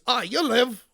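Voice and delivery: put-on a half-hearted Scottish accent, barely there; bad Scottish accent, laughing it off after; weak Scottish accent. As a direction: try William Wallace's Scottish accent and fall short. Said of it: "I can't do a good accent".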